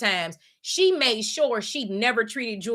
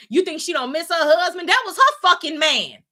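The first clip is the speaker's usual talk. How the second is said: indignant; 8 semitones higher, 4 dB louder than usual. Real, not acted. Ranting defending the mother.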